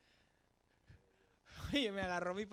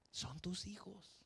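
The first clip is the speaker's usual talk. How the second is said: slow and much softer, close and earnest; soft appeal; 8 dB quieter, much slower than usual. Real, not acted. Preacher speaking to parents, slow and soft. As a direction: lean in and speak it gently.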